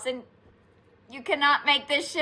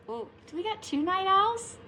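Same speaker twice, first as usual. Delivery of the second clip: delighted; 9 semitones higher, 7 dB quieter than usual. Real, not acted. Delighted by owl finding.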